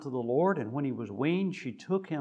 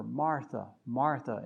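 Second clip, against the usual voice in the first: tender; 2 semitones lower than usual. Retold or imitated. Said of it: "tenderest way to speak with her".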